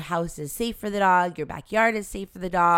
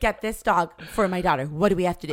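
louder, stressing Get in disbelief; incredulous echo; 4 dB louder than usual. Retold or imitated. Wife echoes her husband's demand for the dog, louder and incredulous. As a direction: repeat his words back in disbelief. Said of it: "Excuse me?".

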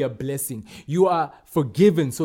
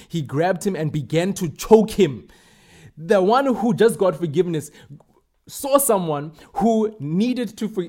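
preaching at full force; 3 semitones higher than usual. Acted. Preacher's heated retelling of parable.

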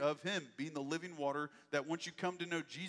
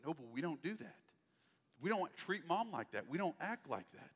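put-on softer, calm words to a small child; a parent's quiet, steady correction; 3 dB quieter than usual. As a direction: correct him gently, not out of anger. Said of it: "I'm not raising my voice".

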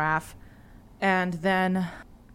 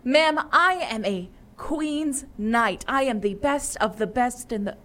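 proud knight; 5 semitones higher than usual. Acted. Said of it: "And you hear him go".

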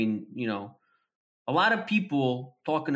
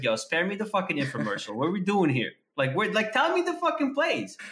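exasperated; 2 semitones higher than usual. Retold or imitated. Exasperated demand to friend.

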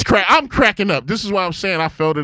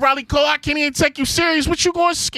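way higher, half laughing disbelief; pitched-up can't take you serious; mock shocked dad; 11 semitones higher than usual. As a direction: react to scammer news. Dad startled by answer.

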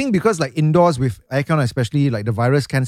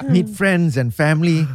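reading through laughter; giggling while reading aloud; laughing; 7 semitones higher, 4 dB louder than usual. Real, not acted. Rereads line laughing.

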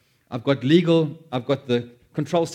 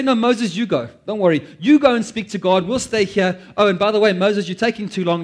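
mocking Israelites; 4 semitones higher, 5 dB louder than usual. Israelites voiced telling Moses off.

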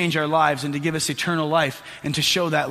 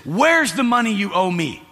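mild mock shout; 3 semitones higher, 4 dB louder than usual. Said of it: "he's shouting at him".

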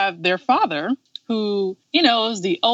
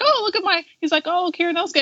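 very high, adoring uncle impression; mock fawning; 10 semitones higher, faster than usual. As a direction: coo like an eccentric, doting uncle. Acting out uncle fawning over nephew.

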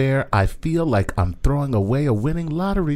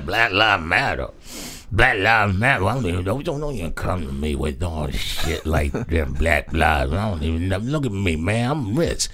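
low, mumbled rapper imitation; rapper impression; 3 semitones lower than usual. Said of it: "a rapper talking".

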